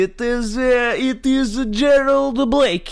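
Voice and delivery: high, slow put-on Australian accent. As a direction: play an Aussie villain from Sydney. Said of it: "I am Alex from Australia".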